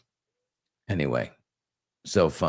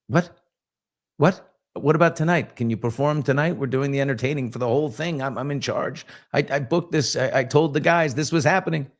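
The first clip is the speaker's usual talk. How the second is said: higher, pleading re-enacted objection; retold indignant protest; 6 semitones higher than usual. Organizer to the friend who cancelled, retold exasperated protest. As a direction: protest as the put-upon organizer.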